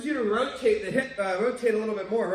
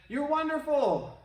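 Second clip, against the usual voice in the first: shouted call; 8 semitones higher, slower than usual. Retold or imitated. The kid shouts praise into the valley. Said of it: "They shouted".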